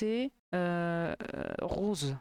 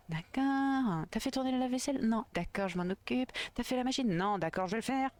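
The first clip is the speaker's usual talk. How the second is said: passive-aggressive animosity; 4 semitones higher than usual. Acted. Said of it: "Un peu d'animosité dans ma voix".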